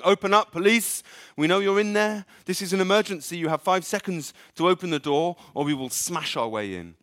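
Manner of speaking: loud, high, commanding police bark; fake police shout. Demon faking police, shouting high and loud at the door. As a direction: demand entry like a bullying cop.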